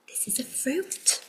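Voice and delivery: soft unvoiced whisper. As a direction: whisper it like a secret. Puppet voice whispers fruit fact.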